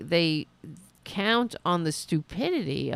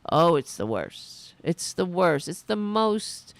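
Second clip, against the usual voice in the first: mock Trump rant; 4 semitones higher than usual. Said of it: "he said".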